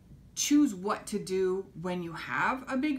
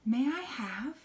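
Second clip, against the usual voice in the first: "May I have" higher with rising end; cheerful asking tune; bright rising question; 4 semitones higher than usual. Shown as a demonstration. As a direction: lift it up at the end. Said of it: "Can you say that with me".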